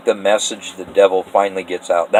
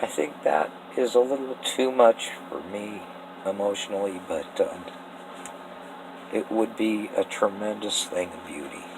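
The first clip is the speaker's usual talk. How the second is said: choked up; 9 dB quieter than usual. Real, not acted. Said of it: "Sorry, I get a little choked up".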